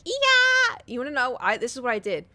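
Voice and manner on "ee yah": a shrill high shriek at a jump scare; high scream. Retold or imitated. Imagined jump-scare scream at the haunted house exit, high shriek. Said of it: "I thought I was gonna be like".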